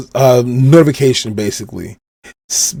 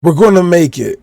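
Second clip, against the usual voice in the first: yelling; 5 semitones higher, 3 dB louder than usual. Retold or imitated. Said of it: "Zoro screams out".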